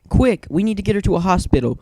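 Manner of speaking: rally the others, urgent; urgent exclamation. A narrator's reading. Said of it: "Twilight Sparkle exclaimed".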